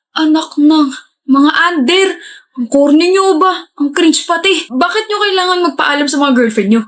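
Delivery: high, slowed teasing jeer; mocking disgust. Friend jeering at pals who ask their girlfriends' permission. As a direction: draw out the jeer at the under boys.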